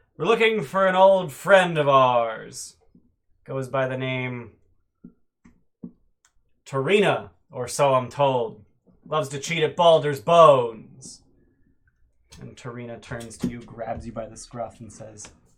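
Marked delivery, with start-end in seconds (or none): 0.2-11.2 very loud swaggering pirate boom, "ours" drawn out. A game master voices a gang leader calling out to the four players, very loud voice. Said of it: "very loud, clearly coming from the leader".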